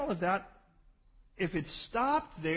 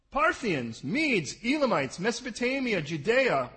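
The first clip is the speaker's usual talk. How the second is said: emphatic listing; 3 semitones higher, 5 dB louder than usual. Acted. Reading list of nations aloud.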